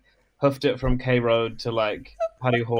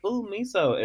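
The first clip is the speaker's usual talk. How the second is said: unimpressed; 9 semitones higher than usual. Retold or imitated. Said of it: "my constant face when".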